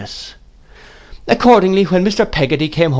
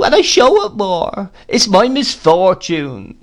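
self-pitying widow crying out; 12 semitones higher, 3 dB louder than usual. A narrator's reading. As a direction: wail out her lone, lorn misery. Plays Mrs Gummidge.

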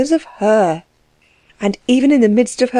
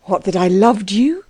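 incredulous. Acted. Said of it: "he asked incredulously, but more gently".

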